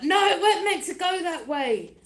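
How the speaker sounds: high, loud whine through laughter; laughing mock protest. Mocking the enemies whose plan backfired, laughing whine. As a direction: laugh while mocking their dismay.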